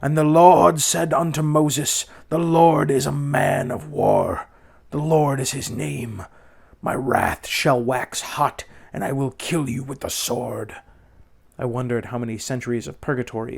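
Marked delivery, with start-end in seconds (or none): 0.0-10.8 slow, loud, booming sermon voice; a minister thundering scripture at his congregation; bellowing preacher. A narrator's reading. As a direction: boom it out from the pulpit, drawn out. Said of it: "when he bellowed".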